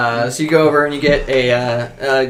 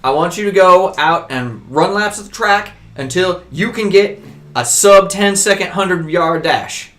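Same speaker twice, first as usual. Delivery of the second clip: commanding dad; 4 semitones higher than usual. Acted. Dad ordering his son to run laps, commanding. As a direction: push him out the door like a coach.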